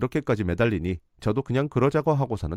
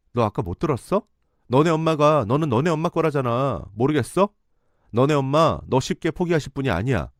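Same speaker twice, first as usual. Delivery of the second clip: cutting firmly; 4 semitones higher, 4 dB louder than usual. Retold or imitated. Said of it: "딱 잘라서 말을 했지만".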